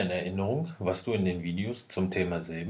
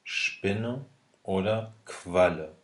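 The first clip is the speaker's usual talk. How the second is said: sounding out words; much slower than usual. Shown as a demonstration. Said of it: "aber sprichst".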